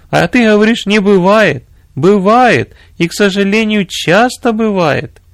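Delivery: высокий напористый голос жены генерала; спорь с мужем высоко, растягивая последние слова; возмущённая жена. A narrator's reading. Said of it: "воскликнула его жена". (возмущённо, на высоких тонах)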